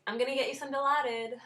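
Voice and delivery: high, hurried imitation of a flustered nurse; frantic nurse. Nurse rushing to a screaming patient, frantic. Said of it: "running around like a chicken without her head".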